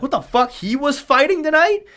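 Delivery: a light, high retelling of shock; retold surprise. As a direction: replay the jolt of seeing the news, half-joking. Shocked on seeing the fight result.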